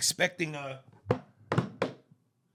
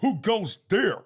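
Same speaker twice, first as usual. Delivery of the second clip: slow, loud, higher stage declaiming; hammed-up Shakespearean; 6 semitones higher, 9 dB louder, slower than usual. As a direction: boom it like an old stage actor. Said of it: "I could take that over".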